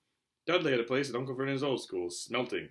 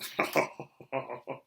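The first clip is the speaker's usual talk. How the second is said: chuckle. Acted. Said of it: "He chuckled at his own joke".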